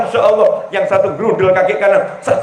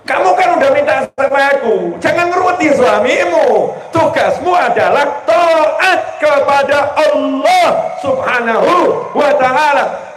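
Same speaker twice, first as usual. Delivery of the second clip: raised divine rebuke; 5 semitones higher than usual. Acted. Preacher voicing God's rebuke.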